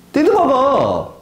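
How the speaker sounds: slow high 띠드버거 with ㄸ for ㅊ; tongue-tied lisp. Shown as a demonstration. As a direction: stretch out a childish 띠드버거. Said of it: "제가 혀 짧은 소리를 했지만".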